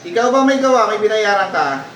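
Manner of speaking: forceful exorcist's demand; stern interrogation. Real, not acted. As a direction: press the culprit to confess. Healer accuses the spirit.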